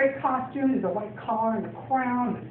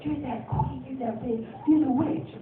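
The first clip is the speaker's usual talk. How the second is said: put-on small kid's voice; 4 semitones higher, 4 dB quieter than usual. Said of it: "little tiny kids were like".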